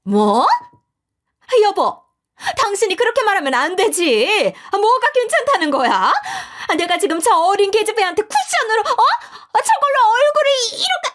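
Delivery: high, loud whining protest; wailing mother-in-law. A narrator's reading. Mother-in-law protesting to her husband, high whining wail. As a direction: whine to her husband in outrage.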